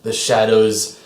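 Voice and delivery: slow, menacing villain boom. Acted. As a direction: speak slowly like a booming sorcerer. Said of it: "you hear a booming voice".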